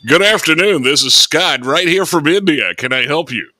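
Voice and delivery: cheerful Indian call center greeting; Indian accent. Pretend. Call center agent greeting caller, Indian accent. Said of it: "in an Indian accent".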